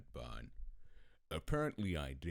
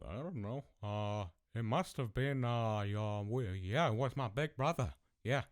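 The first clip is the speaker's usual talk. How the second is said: put-on higher, louder fibbing child voice; mock innocent kid; 7 semitones higher, 5 dB louder than usual. Kid blaming big brother to dad, feigned innocence. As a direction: play a child passing the blame.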